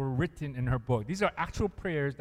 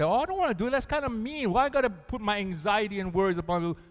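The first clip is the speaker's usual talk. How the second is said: higher mock-whiny objection; whiny complaining Christian; 5 semitones higher, faster than usual. Mocking Christians who won't give worries to God, higher and whiny. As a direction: play a reluctant believer, whining. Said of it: "I hear Christians say".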